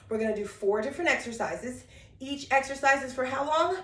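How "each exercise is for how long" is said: ordinary talk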